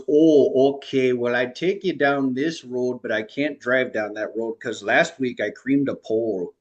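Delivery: imitating a heavy Minnesota accent with a loud opening "Oh"; mock the Minnesota shuttle driver, chatty and casual; lightly voiced Minnesota accent. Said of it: "a really heavy Minnesota accent".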